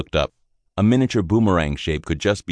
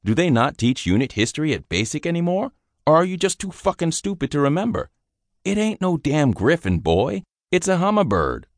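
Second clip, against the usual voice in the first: higher, sneering drill-sergeant scolding; scornful sergeant; 13 semitones higher than usual. Acted. Sergeant mocking the private for not knowing unit history, contemptuous. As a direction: tear into the dumb recruit. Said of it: "The sergeant stopped and glared".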